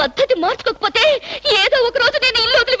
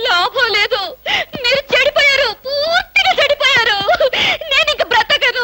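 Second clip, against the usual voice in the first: higher, tearful wail of despair; wailing complaint; 6 semitones higher, slower than usual. Acted. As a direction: cry out that he's ruined, sobbing. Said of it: "నువ్వు మరీ అలా ఏడుస్తుంటే". (ఏడుస్తూ వాపోవడం)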